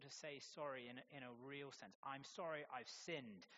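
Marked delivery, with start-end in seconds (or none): 2.0-3.5 slow, sincere, owning the sin; an honest, unhurried confession; sincere apology. Shown as a demonstration. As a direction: say it slowly and mean it.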